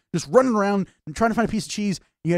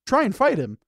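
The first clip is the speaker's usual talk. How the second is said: louder, urgent mock yell at the player; mock yelling advice; 5 semitones higher, 4 dB louder than usual. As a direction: yell at yourself to run. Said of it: "And it's like".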